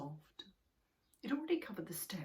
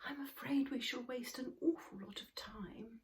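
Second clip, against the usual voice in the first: mild sighing worry; 7 semitones higher, 3 dB quieter than usual. Acted. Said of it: "sighed a little and said".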